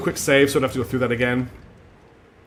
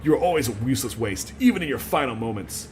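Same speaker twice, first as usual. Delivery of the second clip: shaky attempt at a Texan accent; lightly voiced Texan priest scolding; Texas accent. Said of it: "I'm gonna try anyway".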